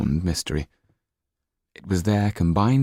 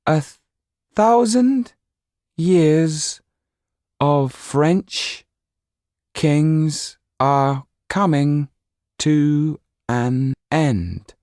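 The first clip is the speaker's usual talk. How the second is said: distant eerie doll voice; 9 semitones higher, 5 dB louder, much slower than usual. Acted. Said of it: "as if from many miles away".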